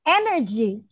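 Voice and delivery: Energy said clearly for repeating; modelled word. Shown as a demonstration. Teacher models the word for children, clear and careful. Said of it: "please repeat after me".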